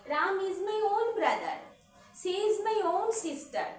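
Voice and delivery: Ram is my own brother, very slowly; teacher reading slowly for notes; slow dictation. Shown as a demonstration. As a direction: dictate it word by word. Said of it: "slow dictation".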